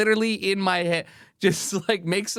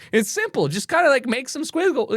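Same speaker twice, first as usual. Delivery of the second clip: imitating; 9 semitones higher than usual. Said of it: "He's like".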